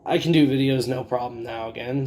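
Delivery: slightly hoarse, scratchy throat. Real, not acted. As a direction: talk through a scratchy throat. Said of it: "it still sounds a little scratchy".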